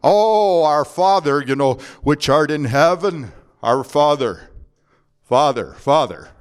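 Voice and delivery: mock babbling prayer repeating "Father" over and over; lightly mock the endless repeated "Father". Shown as a demonstration. Preacher mocking vain repetition, lightly babbling prayer. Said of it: "vain babbling that is called prayer".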